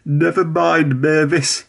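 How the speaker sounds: gentle, slow kind voice; kindly. A narrator's reading. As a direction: reassure a sorry friend. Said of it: "said Toby kindly".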